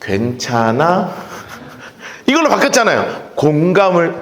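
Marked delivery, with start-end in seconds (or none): 0.0-1.1 soft, very slow, lower "괜찮아?"; gentle comfort. Retold or imitated. Modern comforter soothing an anxious youth, soft and slow. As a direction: ask it tenderly, drawn out. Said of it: "요즘은 다 어떻게 돼요".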